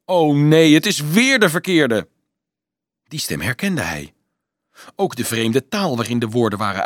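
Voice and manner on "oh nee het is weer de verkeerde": loud, raised cry of dismay; shrill voice. A narrator's reading. Woman seeing the wrong one again, shrill cry. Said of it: "Een schrille stem".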